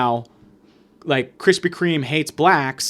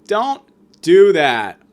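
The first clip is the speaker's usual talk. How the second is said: louder and slow, every word weighted; slow firm command; 2 semitones higher, 7 dB louder, much slower than usual. Shown as a demonstration. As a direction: lay down the law, slowly.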